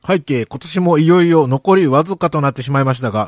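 talking through a mouthful of chocolate; reading with food in the mouth; mouth full. Real, not acted. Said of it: "食べながら喋らない".

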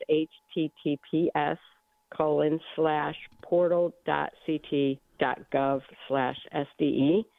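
slow and carefully spelled out; slowly. Real, not acted. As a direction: spell each letter slowly. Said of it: "say that one more time slowly".

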